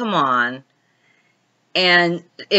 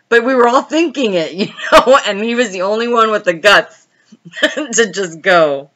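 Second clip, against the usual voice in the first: talking through giggles; laughing; 4 semitones higher, 3 dB louder than usual. Real, not acted. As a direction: keep laughing between the words. Laughing while telling.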